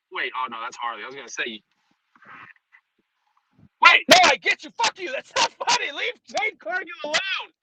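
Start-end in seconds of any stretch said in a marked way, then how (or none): 3.8-7.5 much higher, hammed-up indignant yell; mock outrage. Streamer fake-scolding chat over a joke, hammed-up outrage. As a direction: play-act being offended, squeaky and loud.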